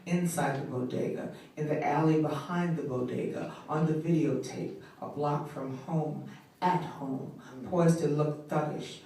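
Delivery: intense, measured poetry performance with swells and hushed drops; spoken word poem. Acted. Grieving mother addressing the listener, slam poetry recital.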